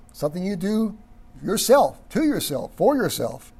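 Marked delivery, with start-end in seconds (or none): 1.4-3.5 emphatic repetition of "yourself"; stress on yourself. Shown as a demonstration. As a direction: stress on "yourself", "to", and "for" in each short phrase. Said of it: "If we emphasize himself".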